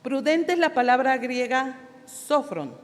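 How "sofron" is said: sofron with the first O accented; stress on first O of sofron. Shown as a demonstration. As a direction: say sofron, leaning on SO. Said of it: "con acento en la primera O".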